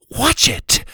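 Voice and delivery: very high, startled sharp cry; sharp warning. A narrator's reading. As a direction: yelp at the swinging blade. Achara ducks a sword.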